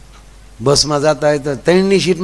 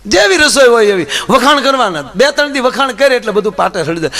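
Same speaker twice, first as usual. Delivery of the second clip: normal talking voice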